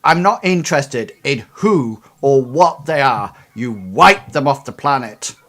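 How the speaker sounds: loud cutting order. Acted. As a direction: cut them off hard. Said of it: "cuts you off and says".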